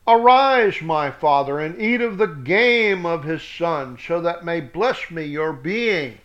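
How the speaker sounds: loud call to wake his father. Acted. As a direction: rouse the old man, loud. Esau calling his father.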